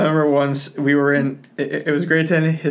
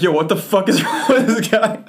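laughing disbelief; 5 semitones higher than usual. Retold or imitated. Kids react to teacher eating sandwich.

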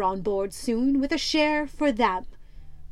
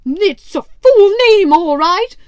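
much higher, louder sidekick voice agreeing; a squeaky, eager yes-man; squat sailor; 7 semitones higher, 14 dB louder than usual. Acted. Squat sailor agrees with his captain, high and loud.

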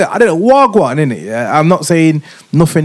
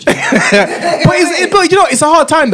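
laughing; 10 semitones higher, 3 dB louder, slower than usual. Real, not acted. Laughing at friend's remark.

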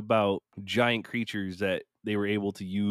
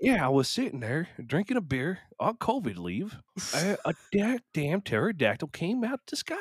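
hammed-up redneck storyteller; 6 semitones higher than usual. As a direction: play a beer-drinking redneck telling a tall tale. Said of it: "some rednecks being like".

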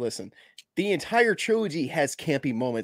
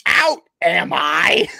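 slow, loud villainous line; quoting Norman with hammy menace; villain snarl; 2 semitones higher, 7 dB louder, much slower than usual. Retold or imitated. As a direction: draw it out like a wounded villain. Acted villain reply.

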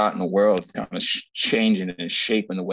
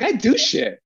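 indignant; 4 dB louder than usual. Retold or imitated. Repeating his retold retort.

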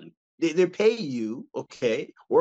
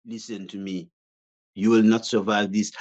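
fussy chef trying to sound menacing; delicate fussy pastry chef; 4 semitones lower than usual. Retold or imitated. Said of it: "I sound like a pastry chef".

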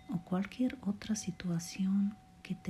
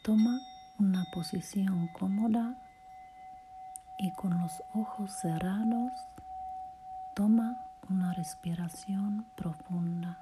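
guided meditation; 3 semitones higher than usual. Acted. Podcaster guiding a listener through relaxation and self-love affirmations, guided meditation voice. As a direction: lead the listener gently through each phrase, unhurried.

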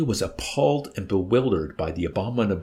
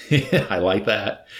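slow, loud and tickled; amused chuckle; 5 dB louder, much slower than usual. Acted. Old man relishes his tale of the wincing major, chuckling. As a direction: savor it with a chuckle.

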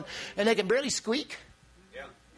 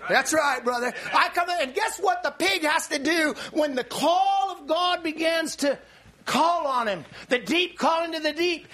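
preaching shout; 3 semitones higher than usual. Real, not acted. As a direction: ring it out to the back pew.

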